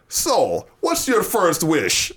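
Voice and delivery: slow, botched Irish leprechaun; Irish accent. Shown as a demonstration. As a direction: have a go at an Irish leprechaun, drawn out. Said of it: "That's my Irish accent".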